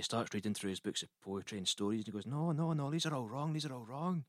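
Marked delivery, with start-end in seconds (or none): 2.3-4.2 high-pitched mock indignation; indignant dismay. Poet reads his books in library, high and indignant. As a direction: object in rising dismay.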